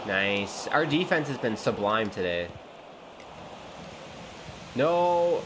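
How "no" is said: anguished shout. Real, not acted. Gamer watching the opponents score, anguished shouting. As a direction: wail in disbelief.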